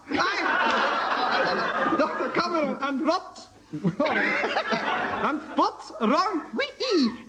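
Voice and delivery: slow, drawn-out mock German; German accent. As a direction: ham a slow stiff German delivery. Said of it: "in a German accent".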